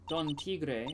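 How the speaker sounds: put-on "Don Tigre" with a half-hearted Spanish accent; "Don Tigre" in a tentative Spanish accent; attempted Spanish accent. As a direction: try a Spanish pronunciation of "Tigre", TEE-gray. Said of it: "I can't do a Spanish accent".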